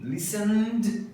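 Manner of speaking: "listened" with a voiced N running into D; pronúncia certa. Shown as a demonstration. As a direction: close "listened" on N plus D, no added syllable. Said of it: "é a pronúncia certa". ("listened" com som de N e D no final)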